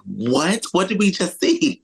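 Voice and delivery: high-pitched mock disbelief; rising, incredulous outburst; baffled reaction. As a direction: play up utter bewilderment. Acted reaction to confusing set layout.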